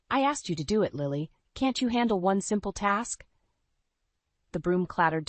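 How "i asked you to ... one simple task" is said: higher, sharp exasperated demand; angry rebuke. Acted. Husband snapping at his wife about his mother, angry. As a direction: cut her down for failing. Mark snaps at Lily.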